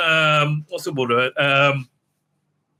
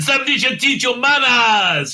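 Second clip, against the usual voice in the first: higher, hammed-up scolding; mock indignant retort; 6 semitones higher than usual. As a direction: imitate her haughty comeback, pitched up. Acted retort in the retold quarrel.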